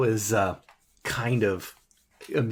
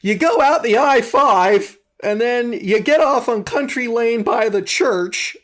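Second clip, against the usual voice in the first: raised sing-out voice for long-winded directions; imagined local giving directions; 7 semitones higher, 5 dB louder than usual. Acted. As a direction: play a local reeling off rambling directions, loudly. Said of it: "nobody that's gonna be going".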